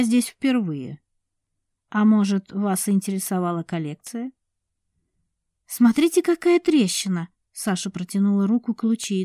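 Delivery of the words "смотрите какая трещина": higher, louder call to look; alarmed cry. A narrator's reading. Sasha repeating her warning about the crack. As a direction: point and warn.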